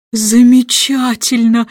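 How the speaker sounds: king applauding the jester's songs, delighted; delighted exclaim. Acted. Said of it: "воскликнул король".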